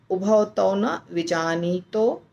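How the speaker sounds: उभौ तौ न विजानीतो said slowly, then a pause; slow recitation with a pause; pause after phrase. Shown as a demonstration. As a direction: recite slowly and stop at the comma. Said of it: "एक कोमा".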